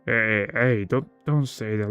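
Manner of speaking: lightly acted protest, near own voice; a mild, hesitant objection without the bear voice; corrected character voice. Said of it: "I was confusing to the bear, uh, voice acting".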